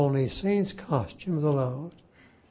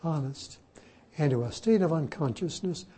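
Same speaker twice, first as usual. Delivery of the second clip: laughing; 3 semitones higher than usual. Real, not acted. Mocking Luther's belief.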